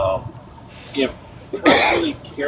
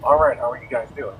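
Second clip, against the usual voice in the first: tin can sound. Real, not acted. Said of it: "you kinda sound like you're in a tin can or underwater".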